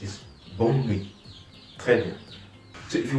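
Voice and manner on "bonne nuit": bonne nuit, nuit said nwee with no T; correct nuit. Shown as a demonstration. Teacher giving the right form: bonne nuit, silent T. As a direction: leave the T off nuit. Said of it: "The T in nuit is silent".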